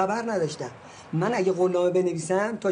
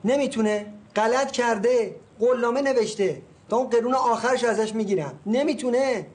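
raised, heated and indignant; angry outburst; 4 semitones higher than usual. Acted. Agent fumes to the seller about the buyer, angry and raised. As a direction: fume at the buyer who won't pay.

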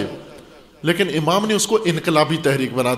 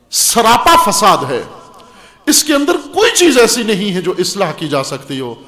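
forceful preaching. Acted. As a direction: hammer out each condemnation. Quotes Imam's letter forcefully.

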